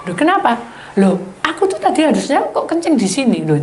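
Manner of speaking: a husband puzzled about where he relieved himself; surprised question. Retold or imitated. Husband confused, wife questions.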